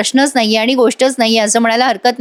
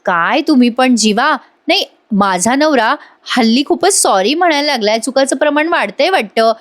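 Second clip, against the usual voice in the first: lightly acted teasing of a husband; playful teasing. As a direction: tease him gently, drawing out the opening words. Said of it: "Nandini गंमत करते बरं का त्याची". (हलकेच गंमत करत, चिडवत)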